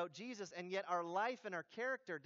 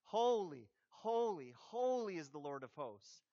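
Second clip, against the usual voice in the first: emotional emphasis; 2 semitones lower than usual. Shown as a demonstration. Preacher showing repetition carries emotion, emotional emphasis. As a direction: lean on each "holy" with feeling. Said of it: "But it portrays emotion".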